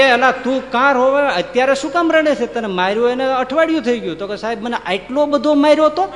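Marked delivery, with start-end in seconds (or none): 0.0-4.2 high, loud, scolding judge; judge's shout. Retold or imitated. Judge shouting at the crying client in court. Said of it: "એટલે જજ કે". 4.4-6.1 high, loud, hammed-up wailing with a laugh; mock wail. Client wailing to the judge about his beating. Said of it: "ઓલો અસીલ રોવા માંડ્યો ત્યાં".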